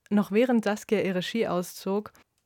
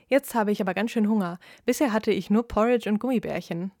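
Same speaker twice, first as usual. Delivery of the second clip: cheerful; 3 dB louder than usual. Acted. Saskia's cheerful joke reveal.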